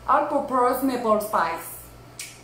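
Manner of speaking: careful, slow English with a Québécois accent; English product name in a real French-Canadian accent. Real, not acted. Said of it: "excusez mon anglais".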